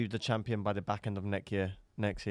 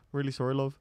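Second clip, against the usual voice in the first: slightly higher northern English apology; northern accent; 4 semitones higher than usual. Acted. Fighter apologising to the lady at the door, accidental northern accent. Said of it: "I don't know why I'm northern".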